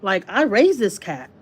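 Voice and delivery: mildly mad, firm refusal; indignant retelling; retold anger. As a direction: put your foot down, a touch heated. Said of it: "I was so mad".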